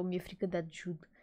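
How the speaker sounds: whispered confession. Real, not acted. Vlogger confessing fear of Ajud, whispered. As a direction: whisper it like a secret.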